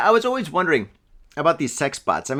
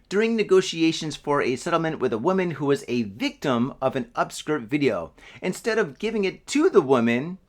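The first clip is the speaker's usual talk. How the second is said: news read. Acted. Reads news story.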